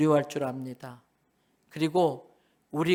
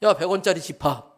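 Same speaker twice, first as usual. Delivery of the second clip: loud, lightly acted taunt; mock swagger; 6 dB louder than usual. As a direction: pull rank on the smaller coin. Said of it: "뒤에서 오백 원짜리가 나타나요". (큰소리로 으스대는 흉내)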